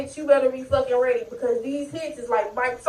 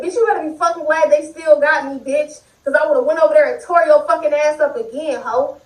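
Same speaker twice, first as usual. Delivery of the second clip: retold threat. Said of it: "I said".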